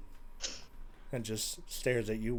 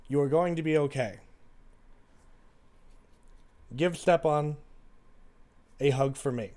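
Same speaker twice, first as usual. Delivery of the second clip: measured letter reading with pauses; reading letter aloud; 3 semitones higher, 7 dB louder than usual. Acted. Sister's letter to her jailed sibling, read aloud. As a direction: read the letter out, slightly louder and deliberate.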